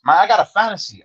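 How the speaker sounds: high, far-off mock voice of the Salvadoran inmate in broken English; imitating his accent. Retelling a cellmate's words to the host, high mock accent. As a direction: pitch it up high and foreign, like the little homie. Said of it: "that's how he talk".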